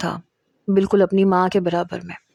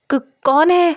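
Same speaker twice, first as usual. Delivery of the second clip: stammering, much higher, calling out in fear; frightened stammer; 8 semitones higher, 3 dB louder, much slower than usual. Acted. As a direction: call out scared, tripping on the first sound. Scared girl calls into dark room.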